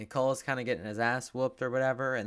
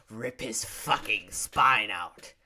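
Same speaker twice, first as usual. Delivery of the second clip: urging from the seat; 5 dB louder, much slower than usual. Retold or imitated. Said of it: "I'm sitting here in my seat".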